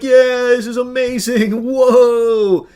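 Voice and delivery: loud, high gushing, imitating fans; mock cheering fan. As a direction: whoop it up like an over-impressed fan, mockingly. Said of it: "people encouraging it".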